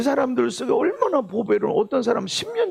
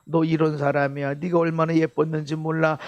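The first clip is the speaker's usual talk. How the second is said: tender love; 4 semitones lower than usual. Shown as a demonstration. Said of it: "하고 칭찬해주고 감사하고 그렇게 사랑한다고 말해라".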